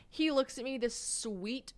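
ordinary delivery

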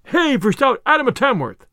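lightly acted crowd cheer; calling aloud. A narrator's reading. Rival supporters cheering their archer, lightly called aloud. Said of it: "all the people called aloud".

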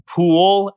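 "pool" isolated with a long oo; vowel demo. Shown as a demonstration. Showing dad's merged words, "pool" drawn out. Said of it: "as three different words".

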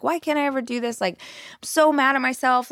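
mildly whiny mock-crying complaint; retold tearful frustration. Friend crying to the group after meditation, mildly tearful frustration. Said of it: "she's, like, crying to us".

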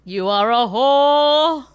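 high, slow, hammy British lady voice; drawn-out prissy English insult; mock posh British.

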